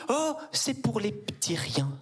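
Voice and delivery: slow, high voiceless whisper; hushed mock confidence. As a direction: breathe it like a secret. Whispered punchline.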